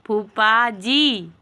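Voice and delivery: फूफा जी stretched very slowly, जी falling at the end; slow drawn-out word. Shown as a demonstration. Mother teaching her baby to say फूफा जी, drawn out very slowly. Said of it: "ऐसे बोलो".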